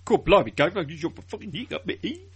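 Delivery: exaggerated Cockney geezer patter; jerky, over-the-top Cockney; proper Cockney. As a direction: throw yourself into a mock Cockney accent. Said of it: "like, proper Cockney".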